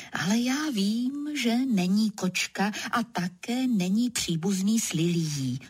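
ordinary delivery

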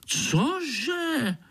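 high indignant outburst; irritated. A narrator's reading. Annoyed mosquito reacting to the boy, high and indignant. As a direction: snap it out indignant. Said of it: "Pišta se rozčílil".

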